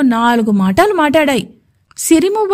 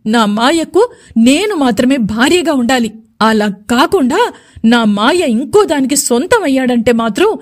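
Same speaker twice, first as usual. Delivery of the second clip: shouting threat. Acted. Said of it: "అని గట్టిగా అరిచేస్తూ".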